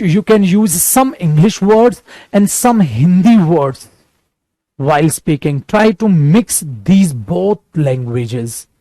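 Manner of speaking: very slow, careful English; slow teaching voice. Shown as a demonstration. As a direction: lay each word down slowly. (धीमी, सधी हुई अंग्रेज़ी)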